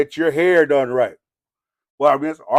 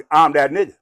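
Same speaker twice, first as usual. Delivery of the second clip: tough boast; 6 dB louder than usual. Shown as a demonstration. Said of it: "See how that's said?".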